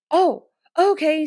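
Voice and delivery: high, loud, drawn-out "oh"; surprised realization. Retold or imitated. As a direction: imitate someone suddenly catching on. Wingman's realization, retold.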